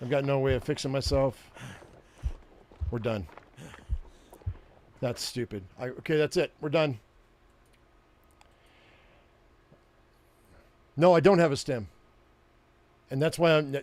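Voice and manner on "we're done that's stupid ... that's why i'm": irritated, annoyed, exasperated tone. Out of stims with no way of fixing up, sounding irritated. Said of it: "you can hear the irritation in my voice".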